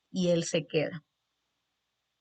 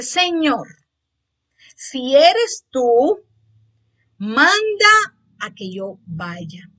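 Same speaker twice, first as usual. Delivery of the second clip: loud, slow, high pleading call across the water; pleading Peter; 5 semitones higher, 9 dB louder, much slower than usual. Retold or imitated. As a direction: beg slowly from the boat. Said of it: "Y dice". (Pedro suplicando a Jesús en voz alta y lenta)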